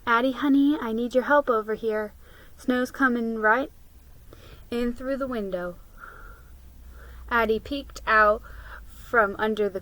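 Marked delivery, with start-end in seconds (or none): 0.0-5.8 gentle mother. Acted. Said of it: "Mama's gentle voice called to her".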